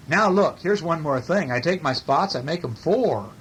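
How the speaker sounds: animated picture-book read-aloud; story reading. A narrator's reading. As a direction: read it with big, stretched key words.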